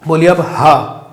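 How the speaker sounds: slow breathy हा from the throat; demo throat sound. Shown as a demonstration. Teacher has students feel the throat sound हा. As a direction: push हा out from the throat. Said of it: "देखिए कहाँ पे जोर पड़ रहा है".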